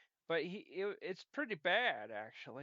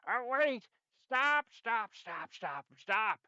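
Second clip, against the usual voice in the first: pleading to stop; 6 semitones higher, 5 dB louder, slower than usual. Acted. Character begging to stop.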